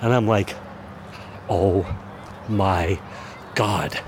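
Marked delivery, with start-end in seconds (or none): 1.5-4.0 slow, with a pause after each word; drawn-out, dawning disbelief; stunned realisation. Retold or imitated. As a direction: let each word land separately as it dawns. Sudden realisation, retold with long pauses.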